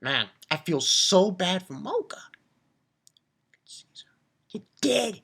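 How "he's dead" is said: unvoiced, gleeful whisper. Real, not acted. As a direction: whisper it like a secret pleasure. Gloating over villain's death.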